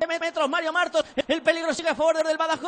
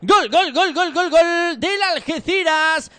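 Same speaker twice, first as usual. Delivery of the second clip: long held goal cry, much louder; golazo scream; 2 semitones higher, 9 dB louder, much slower than usual. Real, not acted. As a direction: hold the gol as long as possible. Third goal, drawn-out goal call.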